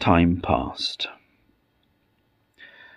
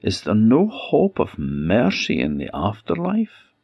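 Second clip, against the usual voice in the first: pleading; 4 semitones higher than usual. Acted. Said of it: "she pleaded".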